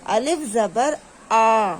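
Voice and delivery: الف زبر آ with آ as a long open "aa"; open-mouthed vowel. Shown as a demonstration. Teacher showing how zabar sounds, open-mouthed آ. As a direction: open the mouth wide and hold آ. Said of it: "کھلا رہتا ہے".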